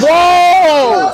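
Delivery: loud startled whoa; surprised shout. Real, not acted. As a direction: call out in shock. Friend about to jet ski off.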